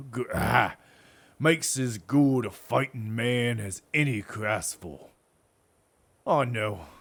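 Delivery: lightly voiced old soldier, proud; a hint of a veteran telling war stories; sergeant voice. Sergeant boasting of serving under Symmachus, lightly gruff.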